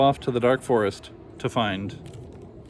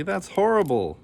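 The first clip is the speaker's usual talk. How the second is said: mock screamed horror; 8 semitones higher than usual. A narrator's reading. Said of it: "screamed Franny and Frankie".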